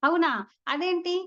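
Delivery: defending the dog, incredulous; surprised challenge. Retold or imitated. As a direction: push back in disbelief. Dharmaraju questioning the refusal.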